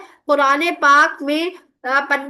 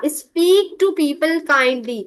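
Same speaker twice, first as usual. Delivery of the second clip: slow teaching; much slower than usual. Shown as a demonstration. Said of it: "teacher repeats the meaning".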